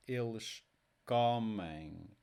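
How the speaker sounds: "comem" with CO drawn out, falling low; next-to-last stress. Shown as a demonstration. Teacher ending a stress drill, long CO in "comem". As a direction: stretch CO in "comem" and let it sink. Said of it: "next to last syllable".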